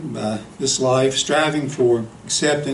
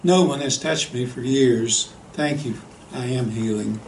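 quivering voice. Acted. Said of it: "in a quivering voice".

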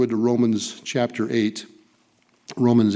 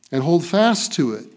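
preaching. Acted. Pastor urging the congregation in Paul's words, raised and fervent. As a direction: press it home to the flock.

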